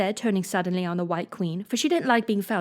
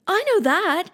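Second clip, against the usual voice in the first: high and louder, bursting to answer; eager cry; 11 semitones higher, 4 dB louder than usual. Acted. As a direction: jump in with the answer. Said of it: "Alice cried eagerly".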